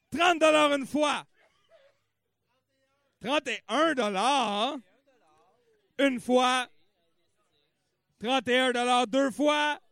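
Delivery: slow, loud bid calling; auctioneer. Acted. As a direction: drag out each price like an auctioneer. Calls bids at charity auction.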